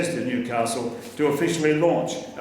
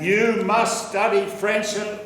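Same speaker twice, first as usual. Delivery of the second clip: a hint of an insistent teacher, higher and slow; Marie-Laure's voice; 5 semitones higher than usual. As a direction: lightly voice a pushing teacher. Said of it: "I heard the voice of Marie-Laure in my ears saying".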